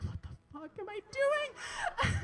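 high, drawn-out comic freak-out; mock panic. Naked girl suddenly exposed on the dock, comically panicked. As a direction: wail it in laughing disbelief.

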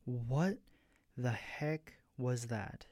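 slow, breathless and ragged. A narrator's reading. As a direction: rasp it out after holding your breath. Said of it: "His voice ragged as he spoke".

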